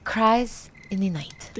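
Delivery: slow, soft spooky title; dramatic title read. Acted. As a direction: announce it like a ghost story. Reading a story title.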